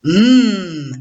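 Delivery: M as a long closed-lip hum; son isolé. Shown as a demonstration. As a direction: hold the bare sound of M, no letter name. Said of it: "je rajoute le dernier petit son". (M prononcé seul, bouche fermée, tenu)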